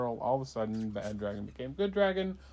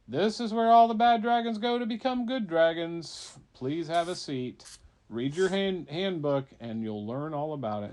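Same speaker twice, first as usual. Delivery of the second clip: purgatory clerk; 5 semitones higher, 6 dB louder than usual. Acted. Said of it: "the guy in Purgatory says".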